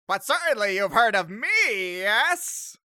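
high, loud theatrical skeleton. Acted. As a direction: boom it out, fishing for recognition. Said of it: "the skeleton's like".

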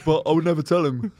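lightly put-on confiding voice; partner's impression. Partner confiding to Luca about a best mate, lightly imitated. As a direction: finish the mock confession in an imitated voice. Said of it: "this is my impression of her impression".

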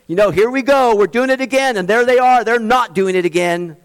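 hammed-up mock gossip; mocking church squabble. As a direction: mimic petty churchgoers pointing fingers. Mocking church factions bickering.

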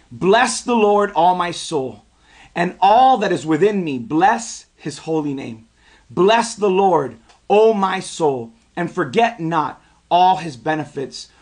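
scripture recitation. Acted. Preacher reading a psalm aloud with the congregation, solemn recitation.

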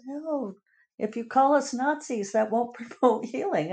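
high-pitched mocking imitation of a complaint; mock whining. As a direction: mimic someone acting wounded and put-upon. Mimics complainers about being called Nazis.

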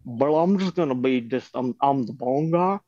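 stoner bong character voice; Curtis voice. Acted. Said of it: "Curtis kind of has a little bit of a".

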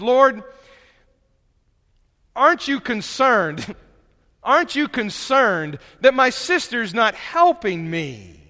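mock-indignant appeal for help; lightly hammed-up put-upon sister; mildly exasperated Martha. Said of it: "about as passive-aggressive as she can be".

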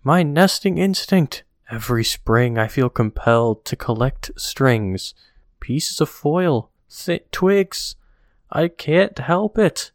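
a touch of helpless bird voice; bird character. Retold or imitated. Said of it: "And the bird says".

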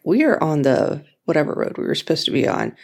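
brisk, sure-of-herself answer; convincing. Retold or imitated. Answering her husband, lightly imitating how convinced she sounded. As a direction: say it like there's no doubt at all. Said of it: "I said it very convincingly".

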